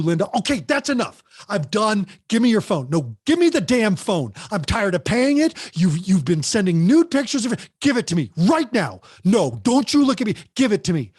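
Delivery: put-on the fed-up parent who snaps at her teen; angry demand. Shown as a demonstration. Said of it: "it's how you do it".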